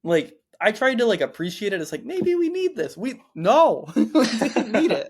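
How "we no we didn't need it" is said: laughing. Real, not acted. Joking about the chapter.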